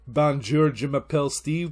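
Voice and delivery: French in a loud English-speaker accent; exaggerated beginner's French accent; bad French accent. Shown as a demonstration. Learner introducing himself, clumsy French accent. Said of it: "It's not like".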